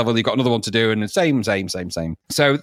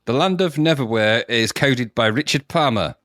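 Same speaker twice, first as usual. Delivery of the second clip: slow, grand announcer read; odd announcer voice; 2 semitones lower than usual. Shown as a demonstration. Reading the credits to his co-host in a slow mock announcer voice. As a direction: intone it like a pompous trailer voice. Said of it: "don't know why I said it like that".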